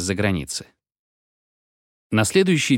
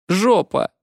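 high, louder, a bit hesitant repeat; boy repeats the rude word to parents, less sure; unsure repeat of a shout; 10 semitones higher, 4 dB louder than usual. A narrator's reading. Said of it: "уже не очень уверенно".

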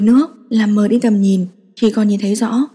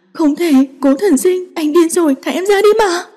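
protesting cry; 8 semitones higher than usual. Acted. She struggles as he drags her home, high panicked protest. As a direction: cry out, pulling away from him.

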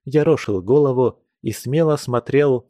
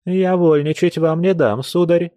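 stern; 6 semitones higher than usual. Acted. Grandmother scolding suitor.

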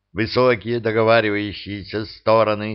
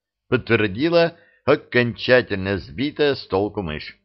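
ordinary delivery, nothing marked

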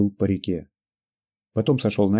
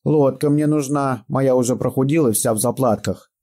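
put-on jubilant old man; 5 semitones higher, 3 dB louder than usual. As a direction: crow over it happily. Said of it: "ликовал он".

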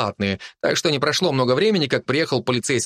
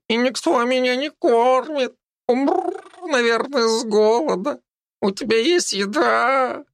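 high, slow plaintive cat voice; a starving cat begging for food; whiny cat; 10 semitones higher than usual. A narrator's reading. Talking cat complains to a girl, high whiny begging.

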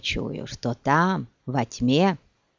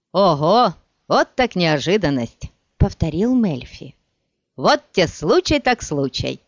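delighted; 3 dB louder than usual. Acted. Melfi cheerfully greets old friend.

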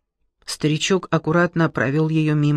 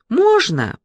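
high timid ask; 10 semitones higher, 4 dB louder than usual. Acted. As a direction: ask shyly, higher. Timid girl asks to enter.

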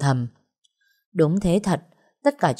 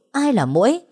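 higher, louder, rising angry demand; 7 semitones higher, 4 dB louder than usual. Acted. Ngọc beating Ánh, demanding who the mosquito is, rising and louder. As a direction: throw the question back in her face. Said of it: "Ngọc chửi".

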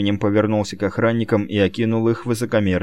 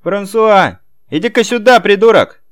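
громкий высокий грубый окрик; рявкнуть на слугу сверху; 10 semitones higher, 6 dB louder than usual. A narrator's reading. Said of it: "окрик Роберто". (Роберто грубо подзывает дворецкого)

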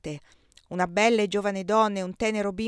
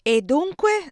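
sharp question; 9 semitones higher, 9 dB louder, slower than usual. A narrator's reading. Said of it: "domandò Maria Luisa".

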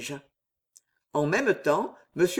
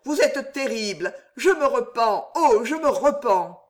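higher, desperate pleading; stammering plea; 6 semitones higher than usual. Acted. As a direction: beg the master for mercy, voice raised. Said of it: "bégaya Bernice".

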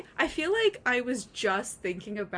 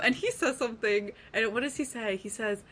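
usual speaking voice

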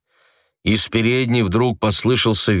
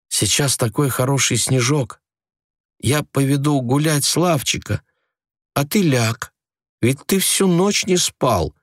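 wife's voice; 5 semitones higher than usual. A narrator's reading. Wife's quoted words.

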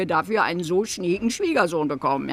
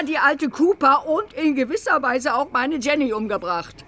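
tearful rant; 4 semitones higher than usual. Acted. Mother rants about murderer.

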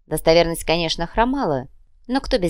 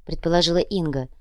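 usual speaking voice

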